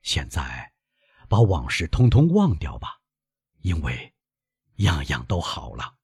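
put-on lightly soothing old father; gentle, smiling. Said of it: "老人微笑着说".

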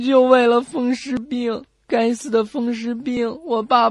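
tearful, slow, half-sobbing words; a schoolboy weeping out his excuse; crying boy. Acted. Boy crying at the school gate to an old man, tearful sob. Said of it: "小孩继续哭着说".

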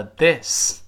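"this" drawn out slowly, short a-like vowel. Shown as a demonstration. Teacher contrasting "this" with "these" for pupils. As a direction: say "this" slowly and clearly. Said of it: "This发a".

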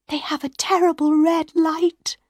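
put-on high, frightened young woman's voice; a scared girl telling her lover about the monster; Christine, frightened. A narrator's reading. Frightened Christine pleading with Raoul.

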